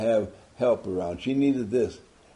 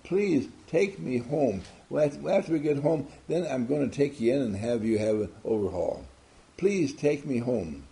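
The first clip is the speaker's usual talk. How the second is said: sincere plea; 2 semitones higher than usual. Shown as a demonstration. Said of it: "enough energy, power, sincerity, and drive".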